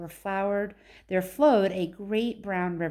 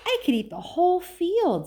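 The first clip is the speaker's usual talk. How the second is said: put-on higher, louder delighted old man; grinning Grandpa Joe; 10 semitones higher, 4 dB louder than usual. A narrator's reading. Grandpa Joe delighting in the grass, higher and louder. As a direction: grin through it with delight. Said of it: "said Grandpa Joe, grinning".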